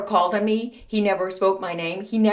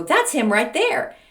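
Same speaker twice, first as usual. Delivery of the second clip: higher, slow retold reply; reluctant pointing-out; 7 semitones higher, 4 dB louder, slower than usual.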